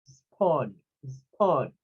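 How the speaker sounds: SPAWN with its O mixed toward A, falling; a lone falling SPAWN, vowel between A and O; open O in SPAWN. Shown as a demonstration. Teacher repeating the syllable for students, open O in SPAWN. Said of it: "like a mixing between an A and an O".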